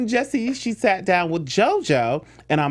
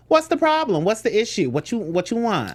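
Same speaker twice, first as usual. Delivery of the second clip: playful challenge, starting high and dropping to usual pitch; mock confrontation; 3 semitones higher than usual. Co-host acts out defending a partner, mock confrontational. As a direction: square up to them, half-joking. Acting out confronting someone for boo.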